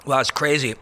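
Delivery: talking while crunching ice. Real, not acted. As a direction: ice in mouth, words around the crunch. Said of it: "Sorry, I'm crunching ice".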